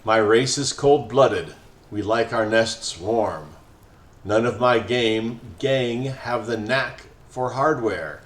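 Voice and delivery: lazy snake about to doze; slow, indolent snake. Acted. Snake boss explains his cold-blooded needs, slow and indolent. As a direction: drag each word out, sleepy and unhurried. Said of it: "He speaks slowly and indolently".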